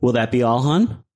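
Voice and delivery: lightly voiced cashier, lifting on "hun"; hint of a cashier serving a customer; store cashier. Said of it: "the cashier from Heinen's the other day".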